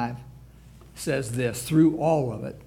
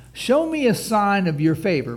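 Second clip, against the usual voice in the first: loud plea; 5 semitones higher, 7 dB louder than usual. Retold or imitated. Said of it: "listen to what he says".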